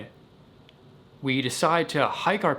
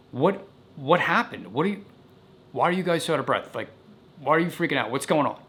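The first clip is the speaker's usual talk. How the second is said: high, pressing dad voice; stern dad; 3 semitones higher, faster than usual. Retold or imitated. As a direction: demand answers like a worried father. Dad demanding answers.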